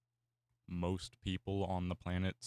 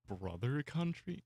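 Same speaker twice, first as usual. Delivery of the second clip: amused disbelief; 7 semitones higher than usual. Real, not acted. Reacting to a chat message.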